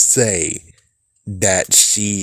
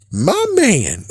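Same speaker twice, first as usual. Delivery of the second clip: excited cheer; 9 semitones higher than usual. Real, not acted. Cheering the brother on.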